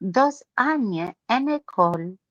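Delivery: halting schoolroom French; French accent. Acted. Becky excuses her rusty French, halting French accent. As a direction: fumble through remembered French, unhurried. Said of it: "with the French accent".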